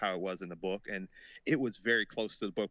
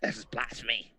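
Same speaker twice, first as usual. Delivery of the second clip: imitating six-year-old. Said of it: "six-year-old Brian just say".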